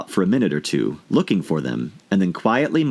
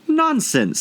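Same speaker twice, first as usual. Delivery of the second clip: loud and decided. A narrator's reading. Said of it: "said Alice very loudly and decidedly".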